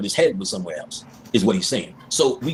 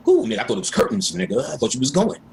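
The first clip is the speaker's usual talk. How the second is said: excited greeting; 6 semitones higher than usual. Retold or imitated. Friend relieved after stroke scare.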